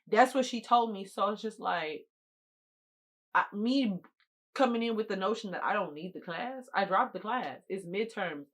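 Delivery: normal talking voice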